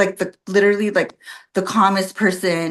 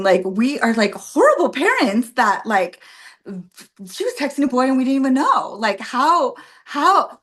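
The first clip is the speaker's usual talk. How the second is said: retold tearful outburst; 3 semitones higher than usual. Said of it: "and I'm crying".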